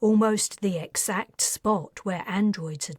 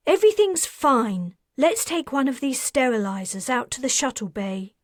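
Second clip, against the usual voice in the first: seething; 4 semitones higher, 4 dB louder than usual. Acted. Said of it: "She was seething".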